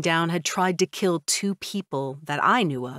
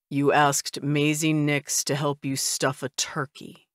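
slow, falling disbelief, no rise; flat statement, not question; 3 semitones lower than usual. Acted. Husband repeating his wife's odd plan back to her as a flat falling statement. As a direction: deliver it as a dry flat statement. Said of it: "more as a statement than a question".

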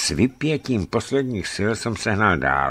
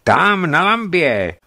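put-on boy voice; 11 semitones higher, 6 dB louder, slower than usual. A narrator's reading. Boy answering.

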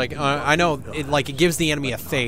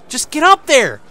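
yell; 9 semitones higher, 7 dB louder than usual. Real, not acted. Yelling at his game character.

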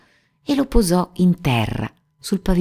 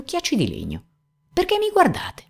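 resentful. A narrator's reading. Geppetto to the staring wooden eyes, resentful. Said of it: "disse con accento risentito".

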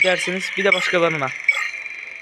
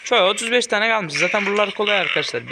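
raised voice; 2 semitones higher than usual. Real, not acted. Gamer telling viewers thirty-five are left, raised voice. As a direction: call it out, pitch easing down. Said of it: "Pardon, niye bağırdım ki öyle?".

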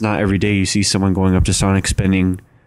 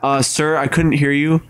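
drive-thru speaker voice; 5 semitones higher than usual. Pretend.

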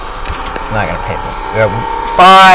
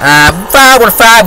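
mock calm driver; 10 semitones higher, 7 dB louder, slower than usual. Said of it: "He's like".

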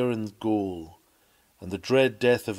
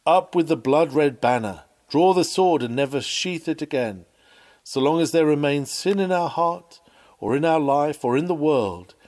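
fervent rallying call; 3 semitones higher, 4 dB louder than usual. Acted. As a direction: rouse them to raise the banner. Preacher's rallying call to fight sin.

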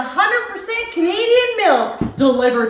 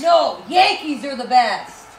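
rival fan yell; 5 semitones lower than usual. Acted. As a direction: fire back at the other fan. Rival fan shouting back.

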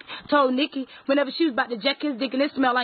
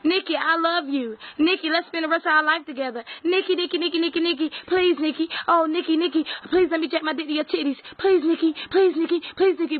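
lightly raised, pleading imitation; mock pleading man; 3 semitones higher than usual. Mocking Sauce begging Nikki, a mildly raised needy whine. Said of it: "how you said".

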